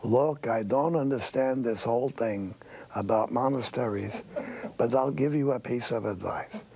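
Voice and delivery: lightly voiced old Jewish accent; a hint of an old Jewish tailor's accent. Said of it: "in the old-fashioned Jewish accent".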